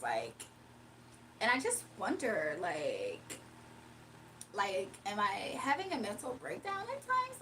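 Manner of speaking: put-on airy Valley Girl accent, lots of likes. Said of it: "Can I do a Valley Girl accent?".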